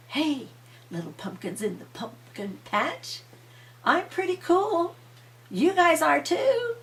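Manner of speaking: high, bright-voiced coaxing of the pumpkins; librarian's sweet greeting. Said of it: "and she said".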